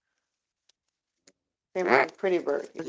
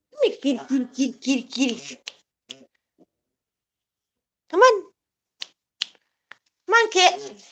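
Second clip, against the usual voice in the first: high, louder coaxing call; calling kitty; 5 semitones higher, 3 dB louder than usual. Real, not acted. Owner coaxing her cat in with a high call. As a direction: coax the cat in.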